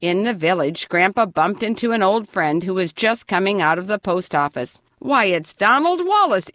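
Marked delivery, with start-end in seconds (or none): 5.0-6.5 exclaiming. A narrator's reading. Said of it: "exclaimed Grandpa".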